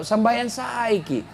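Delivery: soft, slow, kindly nudge to pray; a husband's mild, patient reminder; gentle first warning. Retold or imitated. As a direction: coax her gently, without pressure. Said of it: "Sudah, halus dulu".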